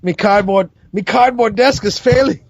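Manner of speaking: jokey mock-Scottish accent; put-on Scottish accent. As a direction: ham up a Scottish "me" for "my". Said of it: "That's racist".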